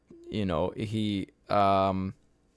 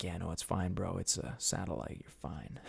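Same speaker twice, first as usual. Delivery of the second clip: laid-back dude; 4 semitones lower, 10 dB quieter than usual. Retold or imitated. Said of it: "And he's like".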